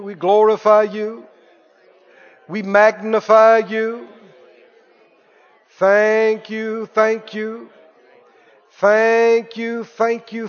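slow, drawn-out worship thanks; praise prayer. Acted. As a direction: lead the church in thanksgiving. Leads congregation in praise prayer.

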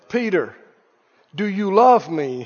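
low, softened acted question; gentle asking. Jesus asking Peter the third time, gentle and low.

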